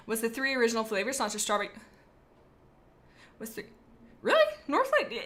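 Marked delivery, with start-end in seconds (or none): 4.2-5.1 high disbelieving echo; can't believe that answer; incredulous. Real, not acted. Repeating friend's guess in high disbelief.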